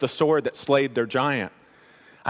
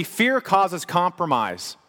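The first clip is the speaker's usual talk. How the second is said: slow emphasis; 4 semitones higher, much slower than usual. Shown as a demonstration. Repeated key line.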